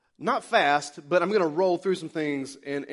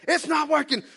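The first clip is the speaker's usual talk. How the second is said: imitating wife; 9 semitones higher, 4 dB louder than usual. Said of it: "She's like".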